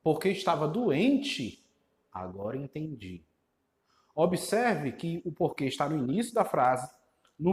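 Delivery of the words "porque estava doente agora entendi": 1 mock retort. Shown as a demonstration. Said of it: "dizendo assim".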